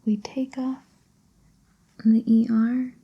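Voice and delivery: ordinary talk, nothing marked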